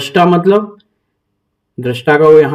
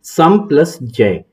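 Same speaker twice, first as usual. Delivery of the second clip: split into parts; slower than usual. Shown as a demonstration. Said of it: "इसका भी संधि विच्छेद कर दिया है".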